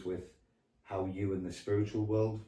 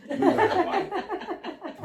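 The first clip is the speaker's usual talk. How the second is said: mock tough guy; 8 dB louder, much slower than usual. Joking as Danny Dyer.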